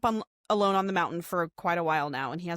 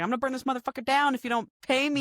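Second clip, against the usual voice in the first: mock threat; 5 semitones higher, faster than usual. Dad threatening to burn ranch.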